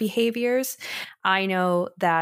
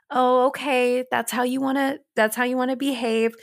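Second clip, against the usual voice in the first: higher, breezy mock permissive tone; permissive parent; 5 semitones higher than usual. Parent shrugging off bad behavior, mock breezy. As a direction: play the pushover parent. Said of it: "create this space where".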